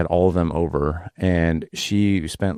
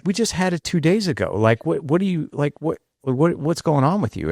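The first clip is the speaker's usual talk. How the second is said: much higher, hammed-up disbelief, slowing on what; high, exaggerated imitation of a fed-up wife; mock incredulous wife; 9 semitones higher than usual. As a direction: parody his wife's exasperated refusal. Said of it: "Like, seriously?".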